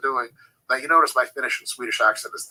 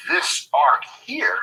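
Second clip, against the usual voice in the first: whispered emphasis; 11 semitones higher, 3 dB louder, much slower than usual. Shown as a demonstration. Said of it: "and all of a sudden".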